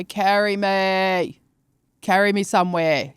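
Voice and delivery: very slow, lazy demand; refusing the watch's exercise advice; lazy drawn-out plea. Retold or imitated. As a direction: stretch it out, too lazy to move. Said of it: "I'll go".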